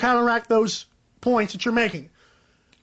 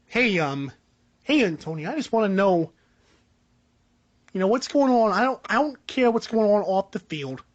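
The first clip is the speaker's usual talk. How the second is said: a lightly voiced coach, much lower, easygoing; Jon Gruden impression; 5 semitones lower than usual. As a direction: drop the pitch way down and play a laid-back football coach. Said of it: "a John Gruden impression".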